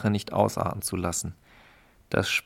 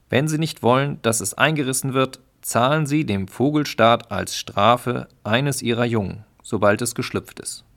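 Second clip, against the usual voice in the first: higher, louder bureaucratic decree; official tone; 3 semitones higher, 4 dB louder than usual. Acted. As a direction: lay down the law like a petty official. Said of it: "Im amtlichen Ton erklärte er".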